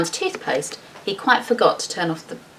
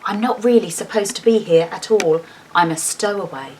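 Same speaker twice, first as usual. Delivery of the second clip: confiding bear. Acted. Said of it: "making sure no one else could overhear".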